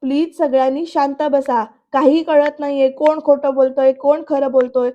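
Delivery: mildly acted exasperated shout; retold shouting. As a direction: plead loudly over a squabble, half-strength. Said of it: "प्रांजल आता ओरडून म्हणतो".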